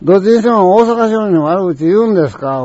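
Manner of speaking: retold indignant challenge, high-pitched; a bit angry. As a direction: take offence on behalf of Osaka merchants. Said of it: "それだけちょっと頭きたからな".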